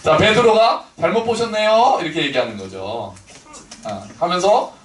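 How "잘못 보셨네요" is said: Gyeongsang speaker faking polite Seoul speech; 서울말 흉내; mock Seoul accent. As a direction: put on a clumsy Seoul accent. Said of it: "서울말 흉내내는 건데".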